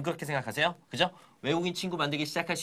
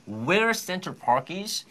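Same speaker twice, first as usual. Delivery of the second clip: slow phrase demo; 3 semitones higher, much slower than usual. Shown as a demonstration. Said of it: "Can you tell me?".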